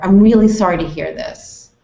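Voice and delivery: serious, earnest condolence; quite serious. Shown as a demonstration. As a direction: say it gravely and sincerely. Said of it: "I sound quite serious".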